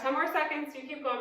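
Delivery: panting between words; winded, talking through heavy breaths. Real, not acted. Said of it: "I'm out of breath".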